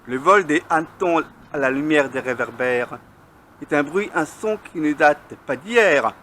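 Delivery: measured verse reading, line by line; poem recitation. Acted. Poet reciting on noisy cockchafers in flight, measured declamation. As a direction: recite your poem with deliberate pauses between lines.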